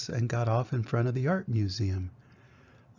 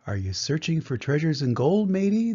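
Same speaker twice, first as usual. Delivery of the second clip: put-on old sailor. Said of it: "the old sailor asked".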